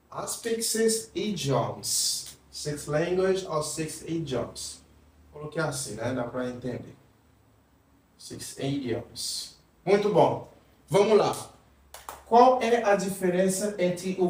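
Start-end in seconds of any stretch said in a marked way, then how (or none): 0.1-2.4 slow model sentence. Shown as a demonstration. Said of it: "teacher models example sentence". 8.2-9.6 unvoiced repeat. Shown as a demonstration. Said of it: "repeats example quietly".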